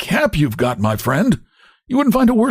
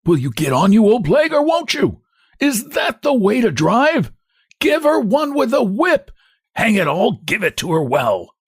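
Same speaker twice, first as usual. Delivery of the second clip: much higher, shrieking hunchback abuse; indignant cry; 11 semitones higher than usual. A narrator's reading. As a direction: scream at the driver indignantly. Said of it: "cries the hunchback indignantly".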